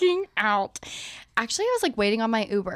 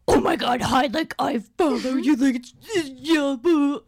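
put-on drunk fangirl gush; 4 semitones higher, 6 dB louder than usual. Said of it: "Like, wasted, being so obnoxious".

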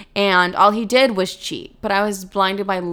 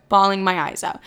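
ordinary talk

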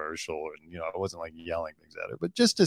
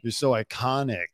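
put-on French accent. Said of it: "you did the French accent".

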